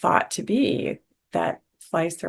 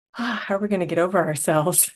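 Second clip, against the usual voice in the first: sighing, mock-exasperated plea, a bit quicker; 2 semitones higher, 4 dB louder, faster than usual. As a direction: quote a weary complaint with a light laugh behind it. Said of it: "I hear from people a lot".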